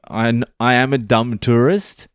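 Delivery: lightly voiced, high eager "dumb tourist, but I'm trying"; dumb tourist act. Shown as a demonstration. Explaining the act he played on the police, eager tourist. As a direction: sound like a harmless tourist doing his best. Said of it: "That's the act I was trying to pull".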